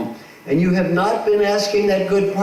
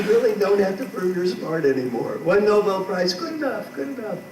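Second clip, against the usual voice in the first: mock soothing; 4 semitones higher than usual.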